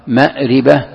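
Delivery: مأربة with a clear i on the ra, ma-ri-ba; ma'riba with kasra. Shown as a demonstration. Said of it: "بالكسر، كلها صحيحة". (مأربة بكسر الراء)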